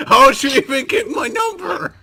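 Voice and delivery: shouting. Acted. God yelling at the caller.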